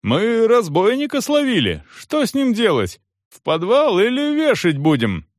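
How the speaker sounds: lightly voiced eager guard. A narrator's reading. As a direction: present the catch proudly.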